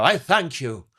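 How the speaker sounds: building from a bow to a high, loud, slow flourish; pompous thespian thanking the room; grand old actor. Retold or imitated. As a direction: take the applause like a ham. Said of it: "And he used to go".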